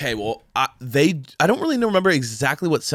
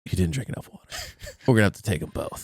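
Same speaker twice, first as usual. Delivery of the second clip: lower, softer deadpan doctor; mock doctor; 6 semitones lower, 6 dB quieter, faster than usual. Pretend doctor explaining the amputation, low and deadpan. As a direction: say it low and matter-of-fact.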